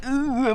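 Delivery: throaty hum before a hard g; preparatory "ooh". Shown as a demonstration. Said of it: "I go like".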